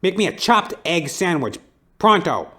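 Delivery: high, loud barking order, hammed-up noir tough guy; tough detective. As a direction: bark the order like a pushy old movie detective.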